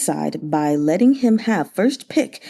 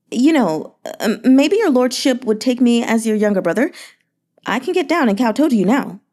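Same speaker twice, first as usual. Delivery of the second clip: lightly raised, sweet-talking merchant; a fawning, flattering merchant, lightly voiced; Yan Hezhu's voice; 3 semitones higher than usual. Merchant flattering the grieving governor, sugary and light.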